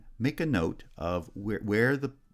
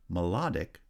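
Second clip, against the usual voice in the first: "Melodic" with the second syllable strong; second-syllable stress. Shown as a demonstration. Teacher showing stress shift, second-syllable stress on "Melodic". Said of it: "has stress on the second syllable".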